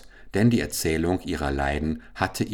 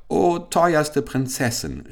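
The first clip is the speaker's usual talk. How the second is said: slow, higher imploring call; 8 semitones higher, 3 dB louder, slower than usual. Acted. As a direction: cry out to the princess, drawn out. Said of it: "rief der Kalif". (langsamer, höherer flehender Ruf)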